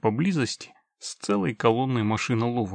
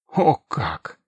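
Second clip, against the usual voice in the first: put-on very old man; 6 dB louder than usual. Grandpa's surprised exclamation.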